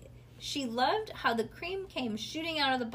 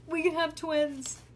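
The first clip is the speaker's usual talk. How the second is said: put-on higher, slow little girl voice; 7 semitones higher, 5 dB louder than usual. Ivy telling Bean her plan, slow little girl voice. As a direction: dream aloud like a small girl. Ivy's dreamy doll plan.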